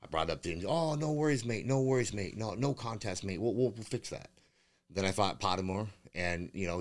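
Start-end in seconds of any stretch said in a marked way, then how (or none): 0.7-4.3 high, sing-song mock reassurance from the promoter. Fighter mocks promoter's empty promise with a high sing-song voice. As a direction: parrot the promoter's breezy brush-off with a sneer.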